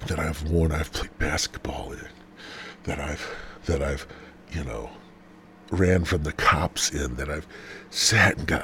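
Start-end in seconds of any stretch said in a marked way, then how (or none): 0.1-4.9 whispered, much softer; sleazy sales whisper. Real, not acted. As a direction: drop to a whisper mid-list. Whispered sock list.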